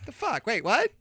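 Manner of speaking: replaying his own baffled reaction; stunned disbelief. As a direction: gasp it out in mock shock. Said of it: "I'm like".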